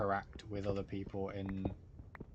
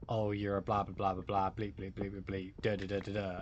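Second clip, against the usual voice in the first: a bit louder, hammed-up rant of blah blahs; mock aggressive insult; 3 dB louder than usual. Streamer mocking rude chat comments, loud mock aggressive rant. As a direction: parody a hostile commenter ranting. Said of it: "being aggressive".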